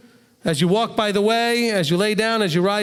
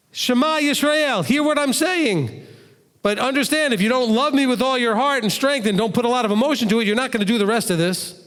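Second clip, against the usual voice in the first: emphatic Shema; 4 semitones higher than usual. Shown as a demonstration. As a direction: proclaim it as if demanding to be heard. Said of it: "put huge emotional content to that thought".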